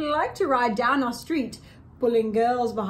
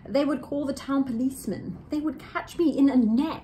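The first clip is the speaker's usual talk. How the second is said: lively storybook read-aloud; reading to children; 2 semitones higher than usual. A narrator's reading. Two hosts reading Seuss to kids, lively storybook voice. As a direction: read it like a bedtime picture book.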